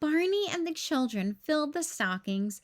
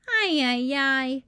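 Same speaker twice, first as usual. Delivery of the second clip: exasperated BJ; 5 dB louder, slower than usual. A narrator's reading. BJ struggling with wrapping.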